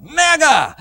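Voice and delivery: emphatic one-word burst; mega voice. Shown as a demonstration. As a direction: boom the word out with relish. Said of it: "great voice there is the word megas".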